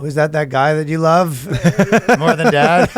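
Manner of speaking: high-pitched, mock-hurt questioning; upset parent. Parent quizzing a child about Biden, mock hurt. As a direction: grill the kid like a jealous parent.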